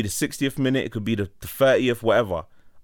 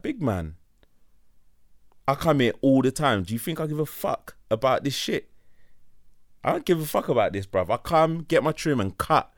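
raised, higher retort to the barber; firing back at the barber, voice up; heated retold comeback; 4 semitones higher than usual.

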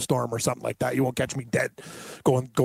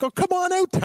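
buddy calling out. Retold or imitated. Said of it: "he's like".

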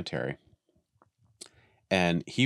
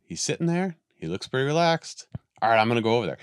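higher, light voice for the dog; dog's thoughts; 5 semitones higher, faster than usual. Retold or imitated. Dog peeking over the wall deciding to come back. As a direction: think it through as a cautious dog. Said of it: "she's like".

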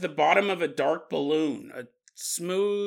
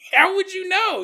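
higher, louder incredulous repeat; exclaiming it again, amazed; 13 semitones higher, 5 dB louder than usual. Real, not acted. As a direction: push it up in disbelief. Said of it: "repeats question for emphasis".

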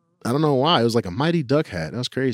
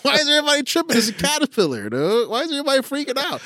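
put-on baffled kid; 12 semitones higher, faster than usual. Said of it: "I was like".

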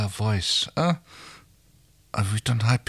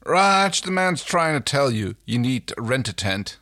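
teasing call; 5 semitones higher than usual. Acted. John teases Rigel loudly.

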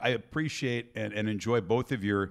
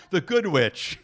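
laughing; 7 semitones higher, 5 dB louder, slower than usual. Real, not acted. Naming Glinda with a laugh.

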